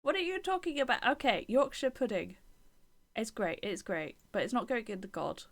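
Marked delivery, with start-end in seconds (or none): 0.0-1.1 higher, louder outraged repeat; indignant repeat. Real, not acted. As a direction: say it again, still offended.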